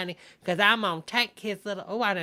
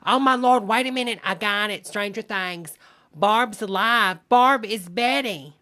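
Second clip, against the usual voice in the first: excited shout; 3 semitones higher, 8 dB louder than usual. Real, not acted. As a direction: announce the discovery loudly. Sudden theory revelation.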